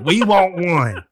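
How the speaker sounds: slow, insistent repeat; demanding US voice. Retold or imitated. The US repeating its demand to the world, slow and insistent. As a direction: drag it out, no room for argument. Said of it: "And that's it".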